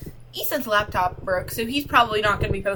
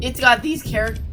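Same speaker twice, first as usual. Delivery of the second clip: voice cracking; 5 dB louder than usual. Real, not acted. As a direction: voice cracks mid-word. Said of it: "sorry, my voice cracked".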